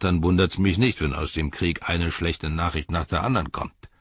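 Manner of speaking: scornful orc tracker. Acted.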